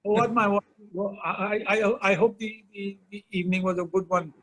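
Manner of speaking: put-on a light Trinidadian accent, playful. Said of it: "it's the Trinidadian".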